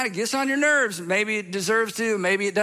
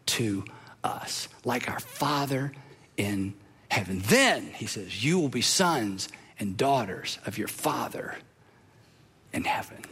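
soft breathy whisper; whispered sermon close; hushed whisper; 9 semitones lower, 4 dB quieter, slower than usual. Acted. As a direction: hush it down to a whisper. Closing hushed delivery.

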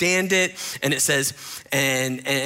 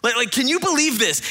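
hammed-up disbelief, voice pitched up; indignant Pharisees; 8 semitones higher than usual. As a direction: Pharisees gossiping about Jesus, mock scandalised. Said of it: "they're going".

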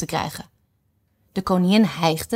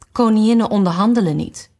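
stiff and haughty; 4 semitones higher, 5 dB louder than usual. Acted. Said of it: "richtte zich nogal stijf op".

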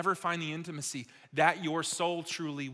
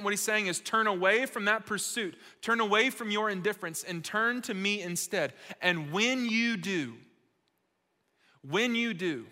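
raised, driving preacher voice; emphatic preaching; 4 semitones higher, 6 dB louder than usual. Real, not acted. Preacher urging people to turn from indifference, emphatic preaching. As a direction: preach it with weight on the key words.

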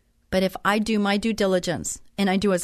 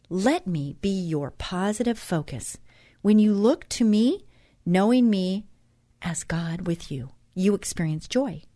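devotional reading. Acted. Host reads God's words to listeners, measured devotional reading. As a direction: read it aloud phrase by phrase, deliberately.

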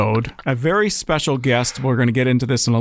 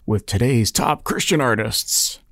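booming announcer; 2 semitones higher than usual. Acted. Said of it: "Didn't that sound good, too? ... radio guy".

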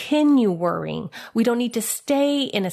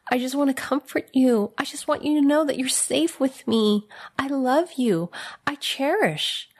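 tender Jesus voice; 2 semitones higher than usual. Acted. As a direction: speak as Jesus holding someone close. Voicing Jesus' loving words.

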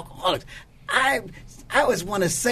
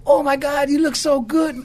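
high, loud gasp of amazement; stunned by how good he looks; amazed exclamation; 9 semitones higher, 5 dB louder than usual. Retold or imitated. Man sees his saved friend, amazed and loud.

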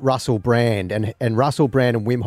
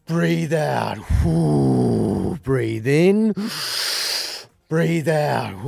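lightly voiced Dutch breathing coach, big breaths between; Dutch accent; much slower than usual. Shown as a demonstration. Host demonstrates breathing method for co-host, light Dutch-accented instruction. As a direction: lead the breathing with a hint of Dutch. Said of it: "in his Dutch voice".

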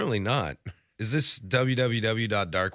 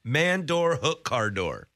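careful word-by-word repeat; repeating the phrase; 3 semitones higher, slower than usual. Shown as a demonstration. Co-host memorizing the garbled phrase, word by word. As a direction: savor each word of it. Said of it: "I gotta remember that one".

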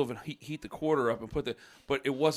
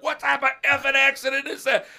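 high, loud, incredulous demand; imitated angry dad; 11 semitones higher, 6 dB louder than usual. Dad rejecting son's accident excuse, loud mock anger. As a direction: throw the excuse back at him, outraged.

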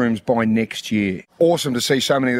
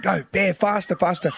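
high sideline cheer at usual volume; retold encouragement; 9 semitones higher than usual. Dad giving his daughter a little race encouragement, high mock cheering. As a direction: urge her on in a high-pitched voice. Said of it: "just a little bit of encouragement".

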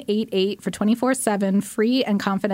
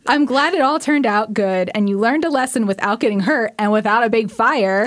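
mom impression; 4 dB louder than usual. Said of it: "try to do an impression of my mom".

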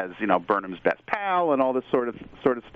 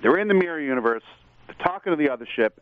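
excited; 3 semitones higher, faster than usual. Real, not acted. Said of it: "I get so excited talking about this".

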